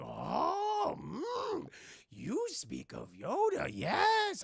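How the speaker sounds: high, slow, swooping creature voice; little goblin man. Retold or imitated. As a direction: croon knowingly like an odd little sage. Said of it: "the little goblin man's like".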